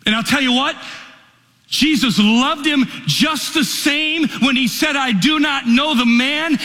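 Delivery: high, impassioned preacher's cry, rising and falling; preaching at full force. Acted. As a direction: pour it out like a revival preacher.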